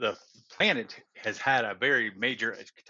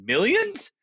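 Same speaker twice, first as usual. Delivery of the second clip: amazed; 12 semitones higher than usual. Acted. Tyran amazed at the number.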